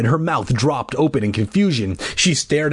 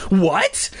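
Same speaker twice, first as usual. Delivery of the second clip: high mock scream; 9 semitones higher than usual. A narrator's reading. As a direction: exclaim high in outraged disbelief. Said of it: "I screamed".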